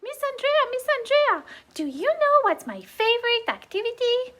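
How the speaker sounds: an excited little pig asking; Piggy asks Miss Andrea a question; puppet Piggy. Acted.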